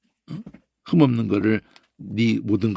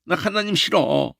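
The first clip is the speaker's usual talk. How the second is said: higher slow sulky whine; whining believer; 5 semitones higher than usual. Retold or imitated. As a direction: sulk at God. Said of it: "이런 걸로". (하나님께 칭얼대는 말투)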